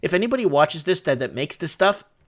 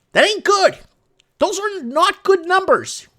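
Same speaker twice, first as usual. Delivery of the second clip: emphatic; 6 dB louder, slower than usual. Real, not acted. Emphatic comment on death numbers.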